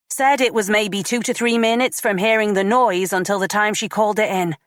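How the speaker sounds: lightly voiced female colleague; female officer voice. Tracy reports at length.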